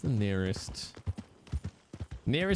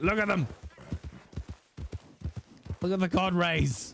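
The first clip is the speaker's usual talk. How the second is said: awed excitement; 7 semitones higher than usual. Real, not acted. Excited higher and louder.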